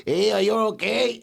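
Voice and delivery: high-pitched, rising call of concern; imitated concerned bystander. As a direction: imitate someone checking on a crash victim. Retelling a concerned bystander at crash.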